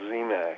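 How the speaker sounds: Zemak said with a hard K ending. Shown as a demonstration. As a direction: say Zemak with a final k sound, as in "back". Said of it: "it's usually pronounced Zemak".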